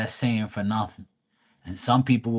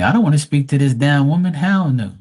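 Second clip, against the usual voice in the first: louder, higher, quicker retold refusal; emphatic refusal; 4 semitones higher, 7 dB louder than usual. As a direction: blurt it out loudly as the indignant spirit. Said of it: "Spirit's gonna tell me".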